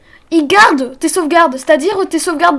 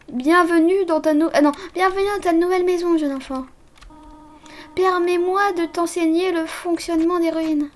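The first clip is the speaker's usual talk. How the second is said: softer, kindly guardian voice; gentle motherly voice; 4 dB quieter than usual. Acted. Streamer voices Toriel greeting the fallen child, softer. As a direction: speak softly like a caring mother. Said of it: "je vais lui donner une autre voix".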